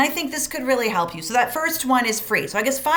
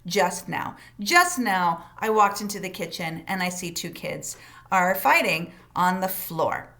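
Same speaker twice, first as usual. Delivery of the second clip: calm facts; 4 semitones lower than usual. Shown as a demonstration. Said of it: "memorizing the words".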